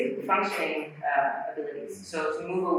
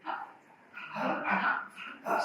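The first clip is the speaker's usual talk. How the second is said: soft, whispered little ha sounds; gentle glottal ha; 9 dB quieter than usual. Shown as a demonstration. Teacher demonstrating the gentle way, soft whispered ha. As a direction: barely close the cords, gently. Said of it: "We can also do it very gently".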